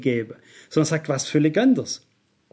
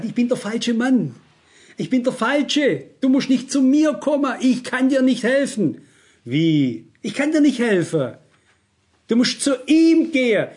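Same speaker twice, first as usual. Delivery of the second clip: higher, insistent, brusque refusal; unfriendly brush-off; 5 semitones higher than usual. Retold or imitated. Preacher refusing callers who seek his help, unfriendly and insistent. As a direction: re-enact turning a caller away, firmly and bluntly. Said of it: "relativ unfreundlich, sage ich ganz ehrlich".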